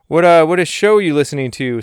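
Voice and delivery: hint of a perky pal asking; Salamander's voice. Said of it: "Salamander asked the question".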